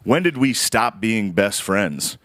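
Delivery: slow, understated imitation of a concerned mother; mildly intense mom. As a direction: draw the question out slowly, lightly intense. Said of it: "it's kind of an intense question".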